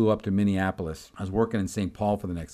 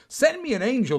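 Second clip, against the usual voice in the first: high-pitched pleading prayer; imploring mock prayer; retold desperate prayer; 13 semitones higher, 3 dB louder than usual. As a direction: plead upward, re-enacting a prayer. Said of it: "He starts praying".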